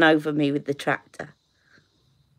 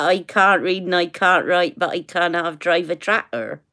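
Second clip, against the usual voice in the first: Somerset accent. Shown as a demonstration. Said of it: "where I got that".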